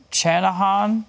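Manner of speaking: Channahon opened with CH as in "chan", pitched slightly up; unsure pronunciation. Real, not acted. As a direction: try Channahon as CHAN-uh-hon, tentatively. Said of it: "No clue".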